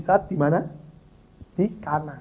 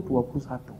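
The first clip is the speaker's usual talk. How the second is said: a quieter, lower repeat of "dua puluh satu"; soft echo; 5 semitones lower, 9 dB quieter than usual. Acted. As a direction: let "dua puluh satu" fall away into a murmur. Echoing the number softly.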